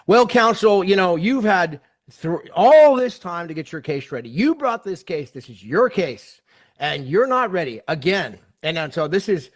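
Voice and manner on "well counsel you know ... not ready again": louder, scolding judge hammering the lawyer; retold judge's scolding, loud and stern; stern tongue lashing. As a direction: dress him down from the bench. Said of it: "the tongue lashing of his life".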